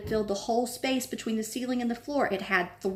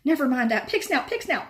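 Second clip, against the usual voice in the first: louder, breathless; panting; 6 semitones higher, 5 dB louder than usual. A narrator's reading. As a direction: gasp out the password after running. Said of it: "panted Harry".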